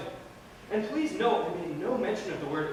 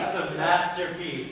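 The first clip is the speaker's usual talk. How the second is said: slow, faintly sarcastic praise; slower than usual. Acted. Friend quoting another's praise of a book, slow sarcasm. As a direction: draw the praise out with a touch of sarcasm. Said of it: "kind of a sarcastic tone".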